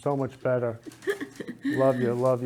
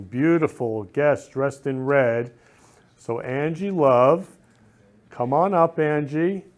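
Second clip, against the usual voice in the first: excited introduction; 4 dB louder, slower than usual. Acted. Host calling his guest up to the stage, excited. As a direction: announce the guest slowly and brightly.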